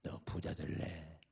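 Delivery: low, slow, soft imitated Jesus; quiet divine question. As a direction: ask slowly, in a hushed low voice. Voicing Jesus speaking to the man. (낮고 느리게 묻는 예수님 흉내)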